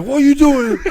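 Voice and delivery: jumping up after tripping a friend; laughing mock shout. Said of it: "I'm like".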